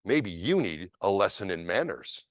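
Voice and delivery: put-on a sneering drunk picking a fight; lightly voiced menacing drunk; drunk man's challenge. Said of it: "the Japanese guy said".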